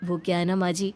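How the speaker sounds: a hint of a brother in a rush, voice dropped; polite young brother. Brother explains delivery, then leaves. (जल्दी में विनम्र भाई की आवाज़)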